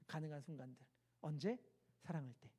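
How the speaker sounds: soft low tender words; tender preaching. Real, not acted. Preacher softly naming love to the congregation. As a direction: speak it gently to the congregation.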